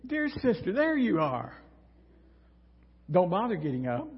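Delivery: lightly voiced syrupy sweetness with a sting; sweet on top, dagger underneath; passive-aggressive. Martha sweetly needling Mary in front of Jesus, passive-aggressive. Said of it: "passive-aggressive".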